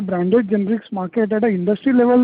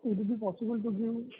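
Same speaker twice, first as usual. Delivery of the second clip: faint, much softer question; feeble voice; 14 dB quieter than usual. Real, not acted. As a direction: ask weakly, almost too quiet to hear. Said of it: "your voice is coming feeble".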